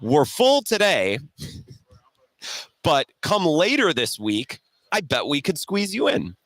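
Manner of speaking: retold fumbling reply. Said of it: "what I said was".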